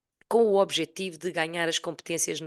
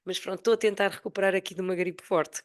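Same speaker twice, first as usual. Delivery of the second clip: raspy sick voice; hoarse from flu; 3 semitones higher than usual. Real, not acted. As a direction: speak through a husky flu throat. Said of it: likened to a singer's voice. (voz rouca de gripe)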